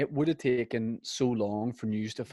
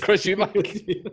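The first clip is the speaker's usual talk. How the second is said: slow, higher, drawn-out Eubank voice; Chris Eubank impression; 9 semitones higher, 4 dB louder, much slower than usual. Host repeats his Eubank voice, slowly. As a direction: stretch the name out in a prim boxer voice. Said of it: "A K A".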